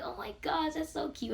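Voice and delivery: high, soft gushing; imitating happy excitement. Security guard gushing about the baby, imitated excited cooing. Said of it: "all excited and all of that".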